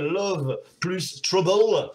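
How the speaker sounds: light mock-Texan accent on English words. French host teasing Sister with a song title, light Texan accent. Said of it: "avec mon accent texan".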